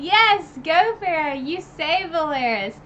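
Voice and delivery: high, loud cheer; root for her like at a game. Retold or imitated. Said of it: "I was like".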